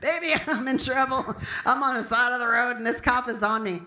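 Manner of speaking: mock-urgent plea to a husband; distressed phone call. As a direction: play calling home for rescue.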